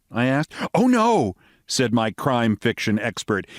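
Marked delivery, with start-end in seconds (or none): 0.7-1.4 American lady voice. Acted.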